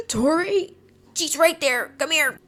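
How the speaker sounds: high-pitched, excited summons to a friend; urgent excitement. Retold or imitated. Calling Tori over after spotting the founder, urgent excitement. Re-enacts spotting her idol.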